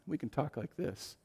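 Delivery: hushed, close-up confidential voice; demonstrated whisper. Shown as a demonstration. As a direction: speak softly so they must lean in. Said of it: "when we whisper".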